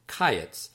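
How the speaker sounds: "kayetz" said as KAI-yets, stress on KA; first-syllable stress. Shown as a demonstration. Author explaining the unusual stress, KAI-yets. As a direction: hit the KA of "kayetz". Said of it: "The accent is on the first syllable".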